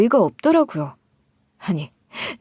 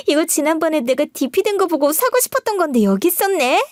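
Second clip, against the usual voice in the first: gushing sister-in-law; 6 semitones higher than usual. Acted. Sister-in-law trying on clothes.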